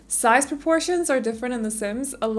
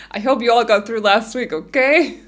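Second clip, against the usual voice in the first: louder, pushy and aggressive; 9 dB louder than usual. Shown as a demonstration. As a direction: push it at them, mock tough. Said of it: "Just to make it sound a little bit more aggressive".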